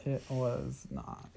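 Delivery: each word slow and firm; slow flat denial. Real, not acted. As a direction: deny it slowly, word by word. Flatly contradicting partner.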